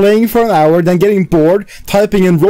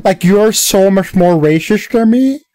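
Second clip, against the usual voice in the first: slightly higher, drawn-out teasing imitation; mock Benji; 5 semitones higher than usual. Panelist teasing Benji about his racism argument, mock imitation. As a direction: lightly mimic a co-host, stretching the key words. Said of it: "Benji comes here with his".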